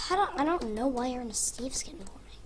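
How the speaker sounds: quiet unvoiced whisper; whispered aside. Real, not acted. Child whispering to dad while he builds.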